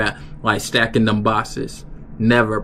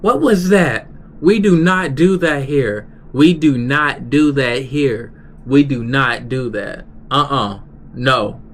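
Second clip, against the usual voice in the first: imitating an angry boss; 3 semitones higher than usual. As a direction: scold them like the heated coworker. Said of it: "he was mad, he was heated".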